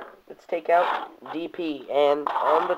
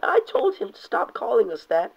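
a touch higher reading; lightly raised Firestar line; plain first take; 6 semitones higher than usual. Acted. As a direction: read it almost straight. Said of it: "Firestar saying".

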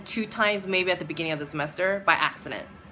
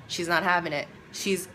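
ordinary delivery

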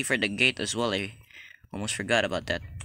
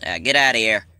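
louder each time; building yell; 2 semitones higher, 6 dB louder than usual. Real, not acted. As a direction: escalate into a shout.

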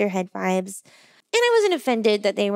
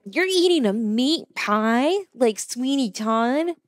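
slow mocking; slower than usual. Strangers mocking her meat pie.

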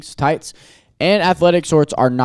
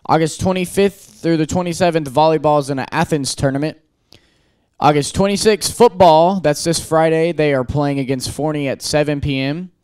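announcer voice; 3 semitones higher than usual. Acted. Reads school announcements.

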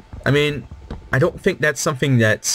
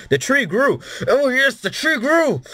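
much higher, building to a falsetto squeal; squealing delight; 13 semitones higher than usual. Real, not acted. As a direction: shriek with growing joy at the tree. Tree grows in his game.

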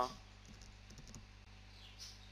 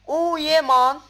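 loud, high whoop of joy; excited cheer; 11 semitones higher, 14 dB louder, slower than usual. Real, not acted. Gamer celebrating a good item drop to viewers. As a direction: cheer it like you just won.

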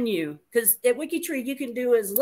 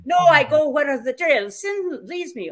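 lightly put-on Spanish accent; 5 semitones higher, 4 dB louder than usual. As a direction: read it with a hint of a Spanish accent. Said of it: "I'm gonna speak in a Spanish accent now".

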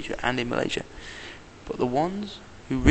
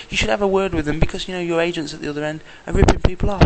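higher, louder telling-off; retold complaint; 6 semitones higher, 6 dB louder, faster than usual. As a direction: scold him, pitched up and loud. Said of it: "I said".

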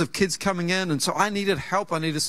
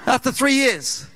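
laughing; 4 semitones higher, 3 dB louder than usual. Real, not acted. Laughing at the irony.

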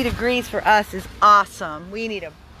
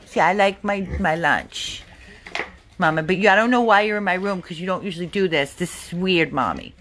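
pig voice; 5 semitones lower than usual. Pretend. Owner voices the pig's thoughts.

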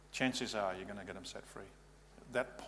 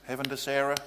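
rising calls of Sarah, growing louder; calling out; 2 semitones higher, 4 dB louder than usual. Shown as a demonstration. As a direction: call her name to bring her back. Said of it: "tap the person's face and say".

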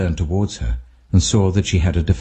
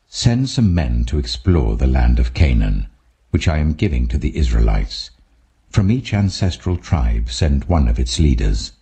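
lower, solemn voice of God; voice of the Lord; 5 semitones lower than usual. Acted. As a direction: speak as the Lord, low and grave. The Lord commands Moses.

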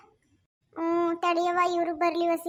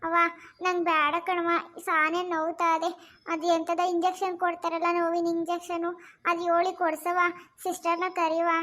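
in pain. Acted. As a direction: plead wearily for relief from pain. Patient in pain begs for injection. (ನೋವಿನಲ್ಲಿ ಬೇಡಿಕೊಳ್ಳುವ ಧ್ವನಿ)

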